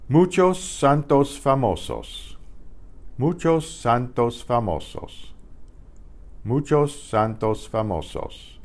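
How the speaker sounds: "Muchos santos famosos" read slowly with pure vowels; Spanish dictation. Shown as a demonstration. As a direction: dictation pace for students. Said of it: "You should be able to write those phrases".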